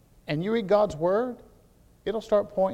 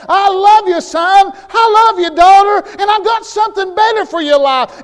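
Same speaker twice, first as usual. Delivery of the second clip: loud, high, building preaching; preaching God's loving reproof at full force to the congregation; rising preaching; 13 semitones higher, 15 dB louder than usual. Acted. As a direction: preach it harder and harder, pleading for God.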